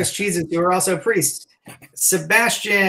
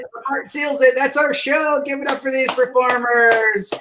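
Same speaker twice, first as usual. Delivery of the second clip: rousing sign-off; 5 semitones higher than usual. Real, not acted. Host closes show, calls for applause.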